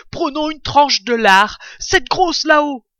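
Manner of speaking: loud, eager badger voice; excited. Badger pointing out the biggest bacon, excited. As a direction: push the request out loudly, full of excitement. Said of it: "dansant d'excitation".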